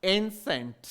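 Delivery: एंसेंट said carefully as "EN-sent"; correct pronunciation of एंसेंट. Shown as a demonstration. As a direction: model एंसेंट in two syllables. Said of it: "तो इसका आप ध्यान रखेंगे".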